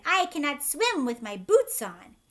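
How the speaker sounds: loud panicked plea; frantic cry. A narrator's reading. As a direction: shout it in alarm. Centipede panics.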